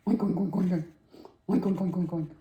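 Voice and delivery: rapid run of oinks; quick-fire pig noises; pig oinking. A narrator's reading. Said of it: "asked the pig".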